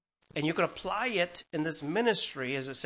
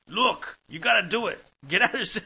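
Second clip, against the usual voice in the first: exhorting preacher; 6 semitones higher, 7 dB louder than usual. Retold or imitated. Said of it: "but he's like".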